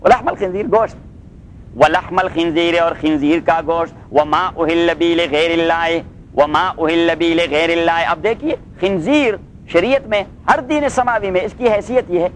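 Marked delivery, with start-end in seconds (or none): 1.8-2.8 drawn-out chanted recitation; slow Quran recitation. Shown as a demonstration. Teacher reciting the verse to his class, slow chanted recitation. Slow recited take set against quick repeat. 4.1-8.1 slow, drawn-out chanted recitation; slow Quran recitation. Shown as a demonstration. Teacher reciting the verse to his students, slow chanted recitation.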